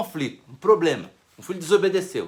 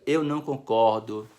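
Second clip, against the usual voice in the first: calm disagreement; 8 semitones lower than usual. Shown as a demonstration. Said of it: "E no final diga".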